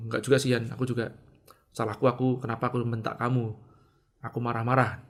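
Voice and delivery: low, soft, contrite tone; gentle self-blame. Retold or imitated. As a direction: take the blame quietly and gently. Acting out his apology to Yani. (nada rendah penuh penyesalan)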